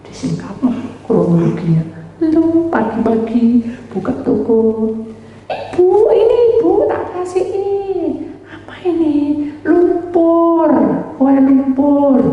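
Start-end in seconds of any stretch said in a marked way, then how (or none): 5.5-12.2 high put-on voice of a shop woman; woman offering cake. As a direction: sweetly offer the cake in a much higher voice.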